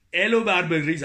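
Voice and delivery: exclaimed Quebec French greeting; Quebec accent. Acted. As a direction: greet like a hearty Québécois. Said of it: "notez mon accent québécois". (accent québécois)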